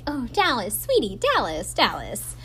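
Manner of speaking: lightly cooed name, barely put on; a touch of fake tenderness to needle her; a hint of mock sweetness. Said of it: "still using this, like, sweet".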